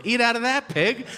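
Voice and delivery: high-pitched, demeaning mock order; mock contemptuous command. Worker demeaning a drive-thru customer, contemptuous. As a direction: order them around with scorn.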